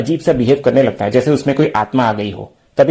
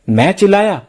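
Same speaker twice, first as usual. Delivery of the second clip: feigned innocent surprise; 5 semitones higher than usual. Pretend. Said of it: "अनजान बनने की acting करता है".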